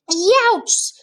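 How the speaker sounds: high, loud pained roar. A narrator's reading. Bloodbottler tasting the snozcumber, loud high roar. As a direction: bellow at the foul taste. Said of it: "roared the blood bottler".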